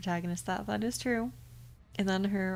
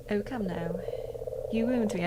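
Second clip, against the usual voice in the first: British-accented demon, mock-wounded; Malphas. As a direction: protest playfully in a British accent. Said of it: "I'm giving a British accent".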